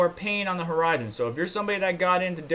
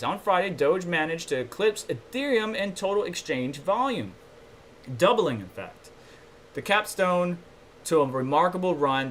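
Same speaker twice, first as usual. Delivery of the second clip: reading an article aloud, a touch raised; lightly newsy article read; news read; 2 semitones higher than usual. Acted. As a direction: read the headline story like a newscaster.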